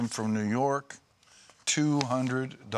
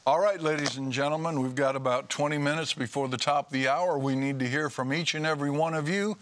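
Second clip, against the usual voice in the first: telethon pitch; 3 semitones higher, much faster than usual. Acted. Host pitches viewers to call.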